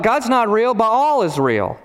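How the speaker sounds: petulant king arguing back, lightly acted; mock contradiction. Ahab's retort to Elijah in story.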